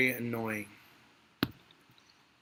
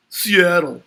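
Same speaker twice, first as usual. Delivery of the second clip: deadpan punchline; 6 semitones higher, 11 dB louder than usual. Retold or imitated. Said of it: "Eskimo responds".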